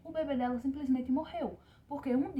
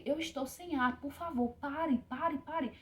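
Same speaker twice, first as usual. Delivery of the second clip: retold desperate cry; 5 semitones higher, slower than usual. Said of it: "E eu gritei".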